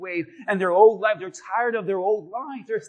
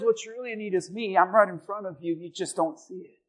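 gentle voice of God; 4 dB quieter than usual. Acted. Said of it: "And God says".

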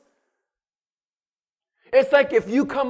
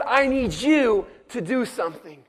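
voicing God; 5 dB louder than usual.

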